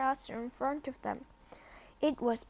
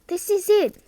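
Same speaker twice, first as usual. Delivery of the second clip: moaned; 9 semitones higher, 10 dB louder than usual. Acted. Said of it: "Ron moaned".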